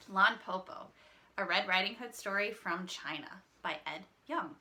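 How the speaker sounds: reading a picture book to the class; story narration. A narrator's reading. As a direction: storytime voice for young listeners. Teacher reads picture book aloud.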